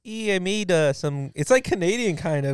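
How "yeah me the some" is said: higher-pitched mock Minnesota accent; light imitation Minnesota accent. Shown as a demonstration. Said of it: "Minnesota's like".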